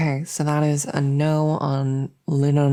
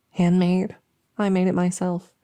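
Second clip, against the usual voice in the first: proud boast; 3 semitones higher, 6 dB louder than usual. Acted.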